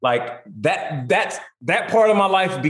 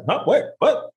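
stunned disbelief; 9 semitones higher than usual. Retold or imitated. Retold disbelief.

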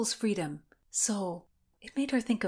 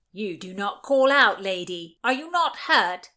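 sheriff's voice; 6 dB louder than usual. A narrator's reading. Sheriff questions fallen girl.

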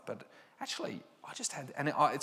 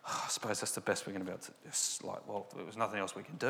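colleague gives up after the email is sent, mildly defeated; defeated resignation; 2 semitones lower, 5 dB quieter, faster than usual. Retold or imitated.

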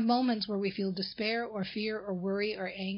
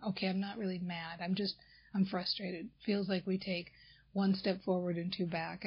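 a softer, weary sigh of frustration, demonstrated; tired frustration; 3 semitones lower, 5 dB quieter than usual. Shown as a demonstration. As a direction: let it sink, tired and overwhelmed. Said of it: "say sentences that are more frustration".

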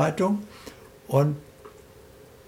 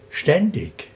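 ständig lifted high and set apart; stress on ständig; 5 semitones higher than usual. Real, not acted. Coach stressing the key word ständig to interviewer. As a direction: lean hard on ständig, then pause. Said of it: "die Betonung liegt auf ständig".

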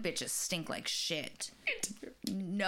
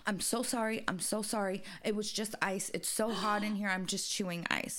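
lightly voiced flustered old woman; a hint of a sorry elderly cashier; apologetic old lady; 2 semitones higher than usual. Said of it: "And goes".

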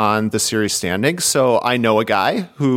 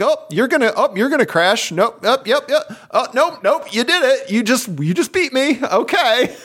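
very high-pitched excited play-by-play, breaking into laughter; animated rider impression; 14 semitones higher than usual. Rider reliving being passed at the finish, highly animated. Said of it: "in a very animated voice".

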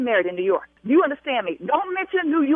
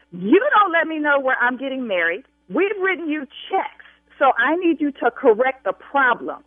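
angry raised voice. Acted. Bride scolding the travel agent, angry and raised. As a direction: keep pushing your voice up, demanding. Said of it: "I will continue to raise my voice".

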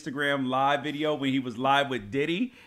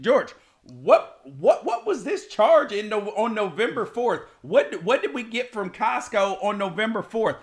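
slightly raised, stammering mock interrogation; imitating nagging wife; 4 semitones higher, 4 dB louder than usual. Husband imitating wife asking about November charge, nagging. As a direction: lightly mimic a spouse querying an old bill.

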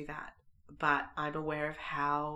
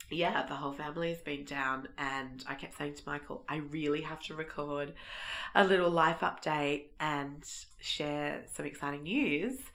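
croaky voice; 4 dB louder than usual. Real, not acted. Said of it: "bear with the croaky voice".

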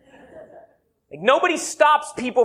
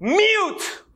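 announced punch; 8 semitones higher than usual. Shown as a demonstration. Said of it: "Here it comes ... Ready?".

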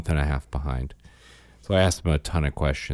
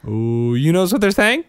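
silly high goofy voice; 4 dB louder than usual. Pretend. Silly voice joking about segment.

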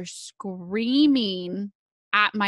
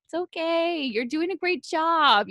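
crying through a gentle pep talk, half laughing; teary reassurance; 8 semitones higher than usual. Real, not acted. Mom tearfully telling her younger self it's okay, choked up and high. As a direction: voice pitched way up and choking with real tears.

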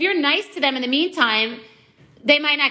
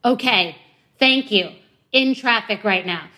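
serious and curt. Retold or imitated. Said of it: "everyone's always so serious".

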